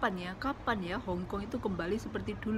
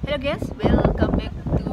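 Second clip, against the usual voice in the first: shouting; 5 semitones higher, 9 dB louder than usual. Real, not acted. Vlog intro shouted outdoors.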